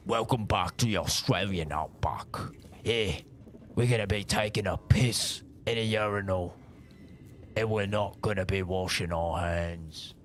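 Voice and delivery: whispered mock Australian wildlife host; hushed documentary narrator in the outback; nature documentary whisper. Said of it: "for Australian".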